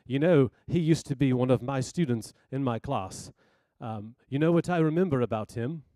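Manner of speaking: lightly voiced South African professor; a hint of South African accent. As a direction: imitate a professor with mild South African vowels. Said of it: "South African accent".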